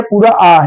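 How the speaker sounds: आ held for its full length; full long आ. Shown as a demonstration. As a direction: draw out आ as a full vowel. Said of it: "उसमें पूरा बोलेंगे". (आ को पूरा लंबा बोलते हुए)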